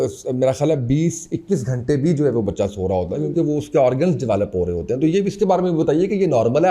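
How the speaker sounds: usual speaking voice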